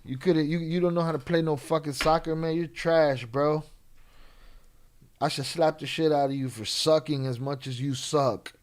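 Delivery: loud, rough taunting in Spanglish; mock a guy talking trash; trash-talking tough guy. Imitating a man taunting a stranger in the bathroom, loud rough trash talk. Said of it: "he went in there and said".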